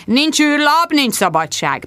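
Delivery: magas, hangos ultimátum; ellentmondást nem tűrve odacsap. A narrator's reading. A főnök ingerülten kiabál. (a főnök hangosan, ellentmondást nem tűrve közli)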